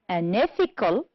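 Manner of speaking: "Unethical" stressed on ETH; stress on second syllable. Shown as a demonstration. Teacher correcting an exercise, second syllable of "Unethical" stressed. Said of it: "On the second syllable".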